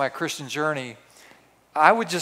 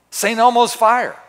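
louder, higher and slow, each word landing; dramatic exclamation; 6 semitones higher, 7 dB louder than usual. Acted. Preacher thundering his refrain to the congregation, dramatic and slow. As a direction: proclaim it like a spark flashing across the room.

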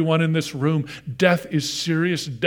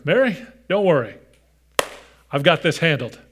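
mock reassurance; 2 semitones higher, 4 dB louder, faster than usual. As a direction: brush the worry off, as an imagined reply. Imagined breezy reassurance from Jesus.

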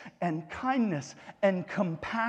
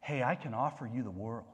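gentle offer; 6 semitones lower, 7 dB quieter than usual. Retold or imitated. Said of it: "here's some guy who's saying".

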